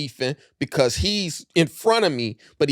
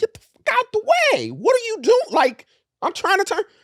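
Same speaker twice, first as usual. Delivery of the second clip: mock very high, wildly swinging, swooping street shout. Retelling yelling at a man blocking the car's turn: imitating own yelling. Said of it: "So I yell at him".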